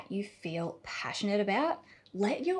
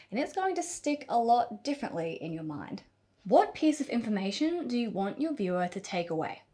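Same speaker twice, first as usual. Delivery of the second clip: ordinary delivery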